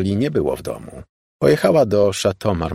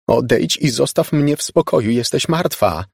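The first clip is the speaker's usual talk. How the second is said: panicked shouting; 6 semitones higher than usual. Acted. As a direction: push her away in panic. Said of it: "krzyknęła ogarnięta paniką".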